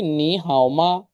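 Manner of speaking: slow, careful নি হাও মা; slow model sentence. Shown as a demonstration. Teacher modeling how are you slowly. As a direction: spell out নি হাও মা slowly for learners. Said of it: "তাহলে বলতেছে কি?".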